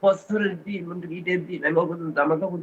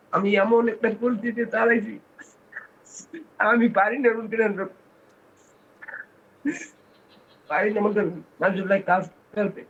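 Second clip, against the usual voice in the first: real tearful breakdown; 3 semitones higher than usual. Real, not acted. Helpless father pleading to the leader online, breaking into tears. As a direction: break down telling of your helplessness. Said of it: "কান্নায় ভেঙে পড়েছেন".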